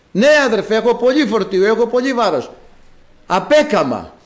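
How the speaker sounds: a hint of a weary parishioner pleading; complaining believer. Preacher voicing a believer who complains to him, mildly pleading. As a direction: lightly voice a tired believer whining to his brother.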